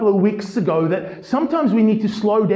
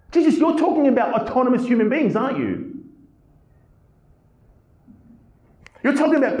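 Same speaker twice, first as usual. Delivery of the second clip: incredulous questioning; 3 semitones higher than usual. Acted. Preacher questions Jesus directly.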